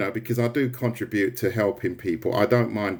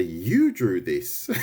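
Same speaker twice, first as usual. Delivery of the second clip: mocking laugh; much slower than usual. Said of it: "They say".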